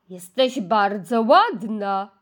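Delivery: slow, lightly deepened big ladle; a hint of a deep old ladle. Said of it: "przemówiła grubym głosem".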